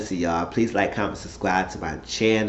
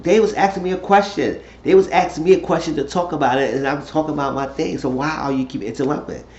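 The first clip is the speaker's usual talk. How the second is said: higher-pitched mild protest; retold upset; 4 semitones higher than usual. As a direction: complain insistently, imitating someone cut off. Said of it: "Quan was getting upset".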